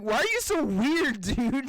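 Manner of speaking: high, baffled question; puzzled friend. Retold or imitated. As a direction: ask like he's weirded out.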